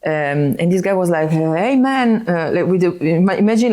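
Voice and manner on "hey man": imitating a South Italian guy's greeting, pitched up; a friendly South Italian "hey man"; South Italian accent. Italian fan greeting the DJ, in a South Italian accent. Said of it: "South Italian accent".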